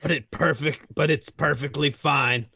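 Darth Vader voice. Acted. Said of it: "That was not even close to Vader".

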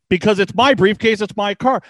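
mounting anger. Retold or imitated. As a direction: act out a man losing patience under questioning. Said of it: "he's getting more and more angry".

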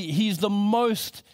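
slow, drawn-out words; slowly. Retold or imitated. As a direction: hold back and stretch each word. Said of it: "he said slowly".

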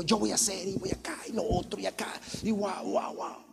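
soft whispered daydream; mock whisper. Preacher mimicking an overambitious believer, whispered. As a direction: breathe it like a secret fantasy. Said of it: "Cosas que Dios no te dijo".

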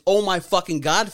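blurted mock panic; alarmed oh-no reaction. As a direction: act out seeing a crash coming. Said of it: "sees is me make this".

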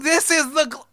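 rising, hammed-up breakthrough; excited revelation. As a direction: build like you just cracked the mystery. Mock discovery of global warming pun.

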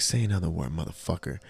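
soft, low threat right at his ear; muttered threat in ear. Retold or imitated. Conductor threatening passenger at the door, quiet menace. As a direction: hiss a threat close behind him. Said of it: "talking shit in his ear".

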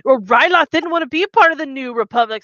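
pompous senator impression. Mocking the senators' excuses in a pompous voice. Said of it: "What a great impression".

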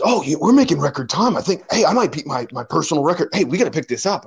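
retold enthusiasm, pitch lifted; keen urging. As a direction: imitate an excited push to speed up. Retelling coach urging a faster pace.

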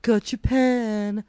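slow, smug teasing; smug guy voice. Retold or imitated. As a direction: drag out the tease smugly. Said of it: "picked up my pen and went".

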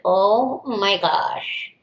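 drawn-out, very slow reaction; retold dismay. Teacher reacting to being singled out, slow dismay. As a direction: stretch each word in understated disbelief.

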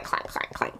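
quiet, voiceless metallic clank; imitated clanking. Describing the boat engine's noise, quiet imitated clanks. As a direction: rattle off soft clanks like a jammed disposal. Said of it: "it sounded like".

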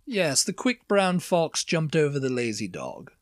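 lightly posh received pronunciation, each word of "Yes, the quick brown fox" tidy; a mild touch of Queen's English RP; milder posh RP accent. Shown as a demonstration. Demonstrating a milder posh RP accent to a friend. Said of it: "that's a milder version of, like, the Queen's English".

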